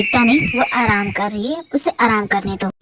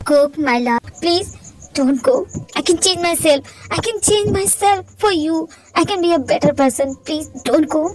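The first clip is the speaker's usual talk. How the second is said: pleading; 3 semitones higher, much slower than usual. Acted. Husband begging wife to stay.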